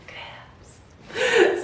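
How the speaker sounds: high, slow, laughing brag. Shown as a demonstration. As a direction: squeal it, giggling.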